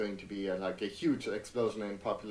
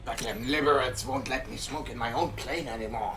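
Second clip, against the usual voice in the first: put-on gruff old soldier voice, a bit higher; old Snake voice; 3 semitones higher than usual. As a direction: growl it like a grizzled old soldier. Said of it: "I can't quite do old Snake voice".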